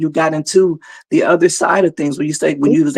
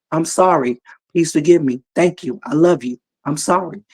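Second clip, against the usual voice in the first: repeating mantra flatly; 2 semitones lower than usual. Shown as a demonstration. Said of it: "Over and over".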